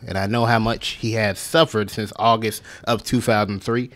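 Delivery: slow mock radio announcer read. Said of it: "I can read it to y'all in radio voice".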